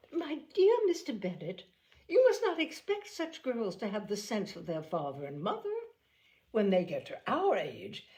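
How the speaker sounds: lightly voiced fussy mother; Mrs Bennet. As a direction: play the offended mother, pitch up. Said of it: "Mrs Bennet answers husband".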